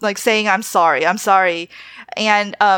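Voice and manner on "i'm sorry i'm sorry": mock sobbing, tearful voice. Speaker retelling how she hugged someone out of guilt, retelling a sobbing apology. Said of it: "like sobbing and just like rocking back".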